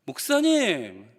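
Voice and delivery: slow, drawn-out mock appeal; reproachful child. Child reacting to the pastor's advice, reproachful. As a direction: imitate a hurt kid stretching the word. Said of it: "그랬더니".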